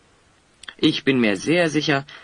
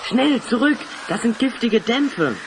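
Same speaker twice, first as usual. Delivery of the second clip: urgent warning shout; 9 semitones higher than usual. Acted. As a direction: yell at them to get back now. Poison fumes rising, warning friends. (panischer Warnruf)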